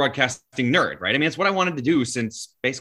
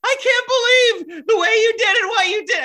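loud, very high cracking voice; Tim Kurkjian; 7 dB louder than usual. Retold or imitated. Admirer meeting a young host, high excited impression. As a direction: gush in a squeaky impression, voice cracking with enthusiasm. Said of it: "hearing his voice crack".

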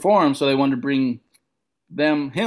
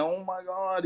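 dread; 4 semitones higher, 9 dB quieter than usual. Retold or imitated. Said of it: "I'm like".

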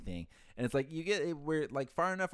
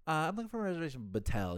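put-on Indian accent, quick; 4 semitones higher, faster than usual. Boss prank calling the front desk, Indian accent. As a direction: imitate a caller with an Indian accent. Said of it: "puts on this Indian accent".

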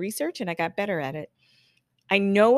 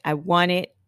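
louder, punched-out command; assured demand; 6 dB louder, slower than usual. Acted. Regulator client ordering the stylist to act, assertive. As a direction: order it like you already know. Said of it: "Like, they know it".

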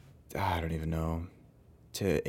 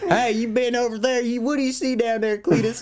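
very high, loud redneck caricature; hammed-up redneck family member calling out; loud redneck tourist; 4 dB louder than usual. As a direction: holler like an obnoxious American tourist. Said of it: "stereotypical loud, like, fat redneck American family".

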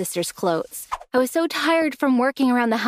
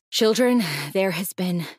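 grave principal announcement; 2 semitones lower than usual. Acted. Principal announces royal deaths.

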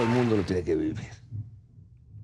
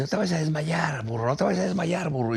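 high mock warning, teasing; a higher, teasing doctor's voice; 7 semitones higher than usual. Retelling the birth, the doctor teases him, high. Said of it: "Me dice".

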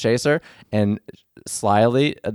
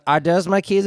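put-on getting drunker; 8 semitones higher than usual. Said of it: "she goes".

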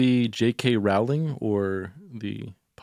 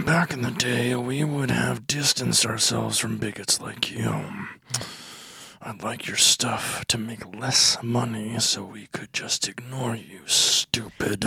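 exasperated. Acted. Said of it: "Just exasperated".

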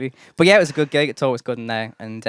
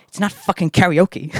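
emphatic, raised South African accent impression; 6 semitones higher than usual. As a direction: mimic a South African barmaid laying down the law. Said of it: "said in a South African accent".

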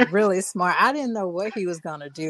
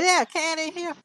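high mock-redneck voice; redneck white guy; 10 semitones higher than usual. Redneck homeowner answers agents about a cat, high mock-redneck voice. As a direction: imitate the redneck homeowner, pitched up. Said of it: "like he's some redneck white guy".

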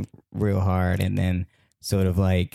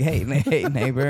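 lightly acted, higher-pitched hailing; imitated friendly greeting; 5 semitones higher than usual. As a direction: hail someone in a mock neighborly way. Cheery campers greeting him, acted.

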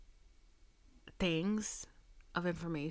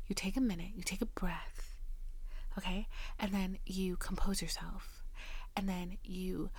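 softer, whispered calming advice; soothing hush; 4 dB quieter than usual. Retold or imitated. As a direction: talk him down gently. Telling him to calm down.

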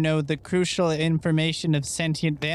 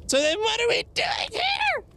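exasperated shout. Acted. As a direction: shout it at the group in frustration. Frustrated outburst at the group.

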